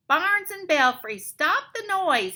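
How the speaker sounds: high, loud exasperated bat; screeching bat. A narrator's reading. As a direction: screech it in annoyance. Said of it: "he screeches".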